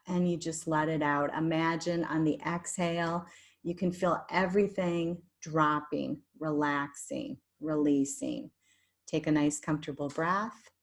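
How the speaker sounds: guided meditation. Shown as a demonstration. Leads a guided relaxation meditation.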